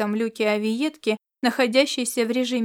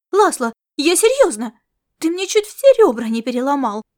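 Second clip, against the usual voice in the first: louder complaint about crushed ribs; indignant protest; 3 semitones higher, 8 dB louder than usual. Acted. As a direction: protest loudly at being squeezed.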